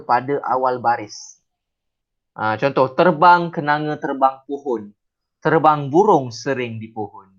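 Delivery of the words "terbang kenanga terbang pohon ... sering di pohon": slow, measured verse reading; poem recitation. Shown as a demonstration. Teacher showing the class how to recite a poem, slow recitation. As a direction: recite the lines unhurriedly as poetry. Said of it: "itu cara kita bersajak".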